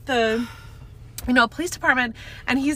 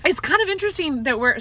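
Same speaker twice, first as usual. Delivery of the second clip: coughing fit; 6 semitones higher than usual. Real, not acted. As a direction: voice roughened by coughing. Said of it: "sorry, I'm coughing so much".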